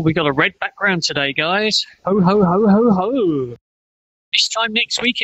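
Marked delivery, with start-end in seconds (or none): 2.1-3.6 Santa ho ho ho. Pretend. Santa laugh for Christmas.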